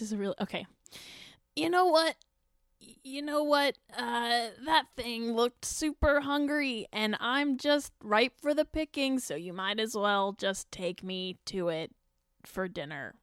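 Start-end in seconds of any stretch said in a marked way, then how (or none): 1.5-13.2 bright squeaky sing-song welcome. Acted. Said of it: "my character voice".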